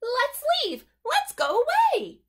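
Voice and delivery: high, loud, bursting to go; pleading to get away; eager urging. Acted. Duck eager to leave.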